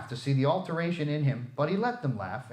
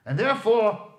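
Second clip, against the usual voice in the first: mock scolding; 8 semitones higher, 8 dB louder than usual. A narrator's reading. Scrooge mock-scolding Bob.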